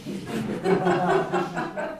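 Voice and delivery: soft unvoiced giggle; a short airy laugh at the joke; quick breathless laugh; breathy laugh. Real, not acted.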